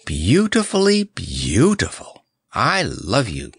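high, swooping lovestruck bird; tremulous adoration. A narrator's reading. Bird declaring love to the clown, adoring. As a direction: swoon upward, then settle on the love. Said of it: "it sighed tremulously".

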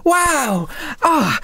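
put-on high-pitched, drawn-out girlish glee; delighted young girl. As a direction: squeal happily at a lucky find. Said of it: "immediately makes eye contact with you guys and goes".

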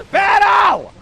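slow, high drawn-out shout; calling out. Real, not acted. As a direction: yell the name far away. Calling lost teammate.

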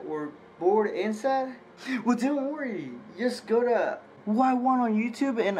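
commercial voice. Acted. Fake commercial ad read.

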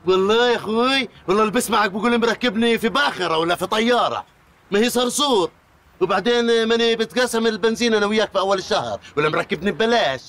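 high-pitched, heated comeback; indignant. Acted. Passenger arguing with the driver about the car, indignant. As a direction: argue back with voice held high.

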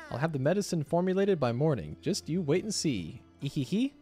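sly scheming villain with a giggle; sneaky cartoon thief. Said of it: "Why do you sound so, like, menacing".

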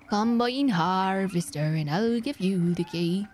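put-on slow sung West Country accent. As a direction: croon it with a West Country burr. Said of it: "song in a Ya West Country accent".

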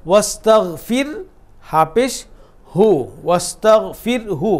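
ওয়াস্তাগফির হু said slowly, হু clearly voiced; slow and deliberate ওয়াস্তাগফির হু; slow spelled reading. Shown as a demonstration. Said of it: "এখানে একটা পেশ আছে".

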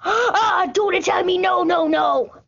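high gasp and plea; mock fright. Pleading with the attacking bear, high and scared.

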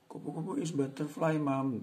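put-on high childlike answer; child's answer. Shown as a demonstration. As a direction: answer like a little kid to mom. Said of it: "Boleh begitu". (suara anak kecil menjawab ibu)

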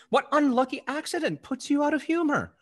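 mocking tease. Teasing mistress, mocking.

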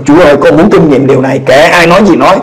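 kneeling alone, praying defiantly for the Spirit; fervent prayer. Retold or imitated. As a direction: beg God with rising fervor. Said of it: "tôi cầu nguyện, tôi nói".

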